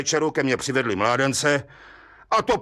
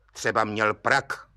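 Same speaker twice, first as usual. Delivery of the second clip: the judge's tentative, unconvinced suggestion; unsure; 5 semitones lower than usual. Acted. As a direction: offer it doubtfully, unsure of yourself. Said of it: "mínil soudce nejistě".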